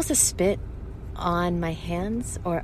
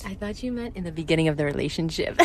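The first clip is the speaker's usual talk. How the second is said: laughing; 3 dB quieter than usual. Real, not acted. Misunderstanding, laughing at herself.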